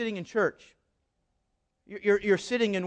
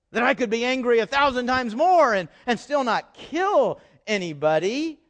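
whiny protesting churchgoer; 2 semitones higher than usual. Retold or imitated. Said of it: "I'll speak on your behalf".

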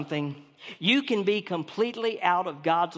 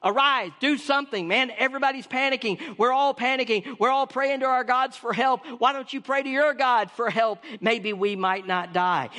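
higher, urgent "Jonah, get up"; a frantic captain pleading with Jonah; preacher voicing the frightened captain, mildly urgent; panicked captain; 3 semitones higher than usual. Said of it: "He says".

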